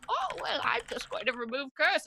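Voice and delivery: high lilting airy voice, then back down; mock Miriam. Player mimics Miriam brushing off the curse, mock lilting. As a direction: tease it out like a dismissive mom.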